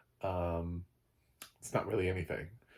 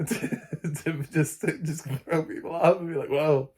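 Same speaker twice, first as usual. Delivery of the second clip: higher, louder, laughing through the words; real amused laughter; 7 semitones higher, 5 dB louder than usual. Real, not acted. Reviewer joking about casting that throws people off, laughing. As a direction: talk while cracking up.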